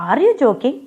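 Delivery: a hammed-up "are you joking"; crying out. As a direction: cry out in disbelief at her husband. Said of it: "she cried out".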